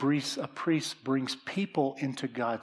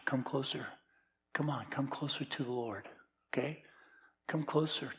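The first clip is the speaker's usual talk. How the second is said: softer, gentle call to come closer; soft, coaxing pastoral invitation; tender invitation; 6 dB quieter than usual. Real, not acted. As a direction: draw them in quietly to the Lord.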